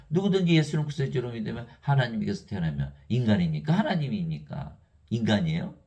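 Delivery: normal talking voice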